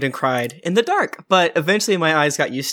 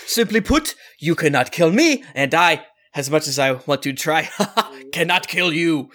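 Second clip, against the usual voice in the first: unsteady character voice. Acted. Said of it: "his voice keeps changing".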